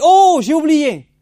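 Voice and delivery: put-on high, loud, slow child's exclamation; sudden child's cry. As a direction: pitch way up like a small girl realizing. Little sister suddenly remembers.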